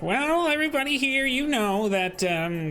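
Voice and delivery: lightly voiced host making a toast; jolly host speech. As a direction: address the crowd like a proud mayor.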